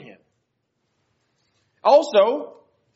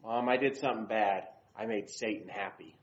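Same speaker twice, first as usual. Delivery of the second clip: imitating his little son; 13 semitones lower, 10 dB quieter than usual. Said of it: "He says".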